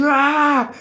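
mock scream. Retelling the fight, repeating the kid's scream as a mock yell. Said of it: "Gritando assim".

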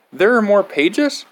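high, loud dismay. Acted. Reader learning the book goes on, high loud dismay. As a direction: squeak out the horror.

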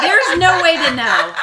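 laughing. Real, not acted. Laughing repeat of own line.

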